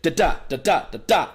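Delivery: steady, level da-da; flat assured rhythm; even confident tonality. Shown as a demonstration. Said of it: "you're trying to hit that tonality".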